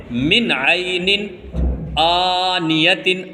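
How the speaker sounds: من عینن آنیتن recited slowly with the آ drawn out long; slow melodic Quran reading; slow recitation demo. Shown as a demonstration. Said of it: "آ کھینچے گا".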